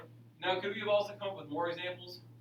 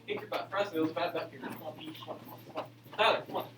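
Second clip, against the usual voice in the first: aerobics instructor; faster than usual. Real, not acted. Leading class exercise break.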